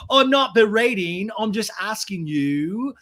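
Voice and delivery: drawn-out petulant denial; mock defensive James. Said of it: "Ariana goes".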